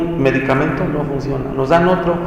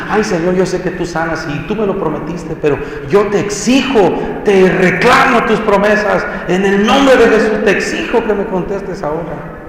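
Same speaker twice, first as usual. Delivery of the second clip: demanding prayer; 4 semitones higher than usual. Retold or imitated. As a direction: play the pushy believer claiming promises. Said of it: "si venimos a Él en una actitud". (creyente exigente, burlón)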